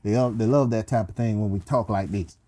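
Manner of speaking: low, easy Southern twang. Acted. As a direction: sweet-talk the ladies in a Southern accent. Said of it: "they love the Southern twang".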